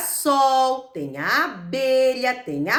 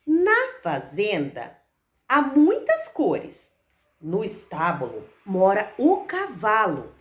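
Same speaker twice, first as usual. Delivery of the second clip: put-on reading to children; 3 semitones lower, slower than usual. Reads picture book to children.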